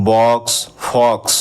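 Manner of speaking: বক্স and ফক্স spoken slowly with a short open অ like নট; slow model words. Shown as a demonstration. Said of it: "উচ্চারণগুলো লক্ষ্য করো". (বক্স, ফক্স ধীরে, নটের মতো হ্রস্ব অ)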